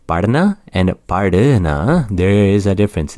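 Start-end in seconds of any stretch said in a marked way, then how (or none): 0.1-2.1 "Pardana and pardana", first plain, second with a breathy h after the d; first without the h, then breathe it out; contrasting pardana pair. Shown as a demonstration. Teacher contrasts two pardana for students. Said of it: "make sure you hear me properly".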